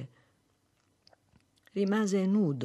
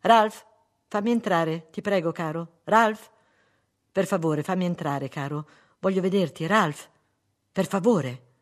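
insistent plea, name called loudly; pleading; 3 semitones higher, 5 dB louder than usual. Acted. Wife begging husband to open door, insistent pleading. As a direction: beg to be let in.

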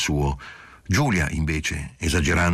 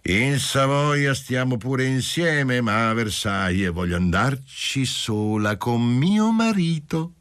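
put-on much higher, slow drunken wife; drunk and loud; 7 semitones higher, slower than usual. A narrator's reading. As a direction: insist tipsily on her husband. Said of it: "con voce ebbra e molto alta".

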